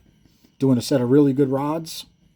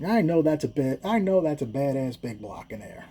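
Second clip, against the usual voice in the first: imitated Black accent; 3 dB quieter than usual. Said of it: "So he's like".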